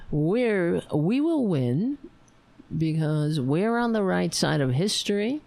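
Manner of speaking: slow, deliberate rallying speech; rallying sign-off. Acted. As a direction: spell out each value with conviction.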